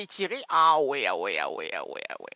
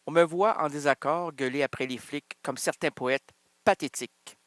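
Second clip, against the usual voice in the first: steady recited reading of the verse; poem recital; 3 semitones lower than usual. Shown as a demonstration. Starting the poem over for the listeners, recited. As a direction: read the line like a slam poem. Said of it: "Mais je recommence".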